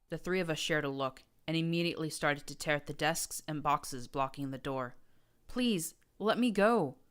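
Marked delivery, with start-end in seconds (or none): 5.5-7.0 high, slow begging through tears; sobbing plea. A narrator's reading. Captive mare begging the prince to free her, sobbing. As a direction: plead to be let go. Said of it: "Roses begged, sobbing as she slumped".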